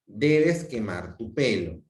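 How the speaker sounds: slow firm command with Debes stressed; measured order; imperative. Shown as a demonstration. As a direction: lean on Debes, unhurried. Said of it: "más un verbo en infinitivo".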